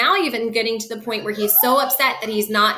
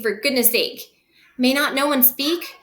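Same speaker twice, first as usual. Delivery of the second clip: angry father. Acted. Capulet scolds nurse.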